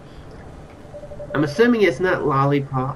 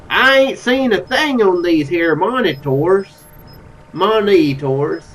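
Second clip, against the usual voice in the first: slow, leaned-into Southern drawl; Southern accent; 3 dB louder, slower than usual. Acted. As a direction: stretch the words out in a fuller Southern twang. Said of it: "Oh, he's Southern".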